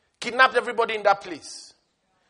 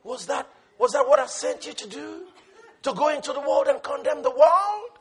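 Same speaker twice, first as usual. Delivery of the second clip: voice of the Lord. Retold or imitated. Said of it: "the Lord looks at you and says".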